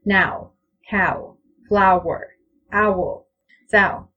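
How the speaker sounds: each word with a rounded aw glide; English aw sound. Shown as a demonstration. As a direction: lean the glide toward w. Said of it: "It, it sounds like this".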